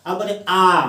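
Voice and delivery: आ drawn out for two beats; long vowel. Shown as a demonstration. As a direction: hold the आ longer to show its length. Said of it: "ज्यादा समय लगता है". (आ को लंबा खींचकर बोलें)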